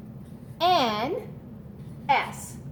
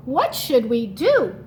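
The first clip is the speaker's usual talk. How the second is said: put-on children crying out; 5 dB louder, slower than usual. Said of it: "The children cried out".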